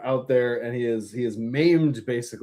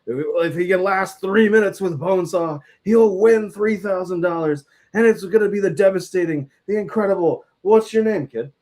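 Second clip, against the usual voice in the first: ring announcer; 5 semitones higher, 4 dB louder than usual. Retold or imitated. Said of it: "he just is like".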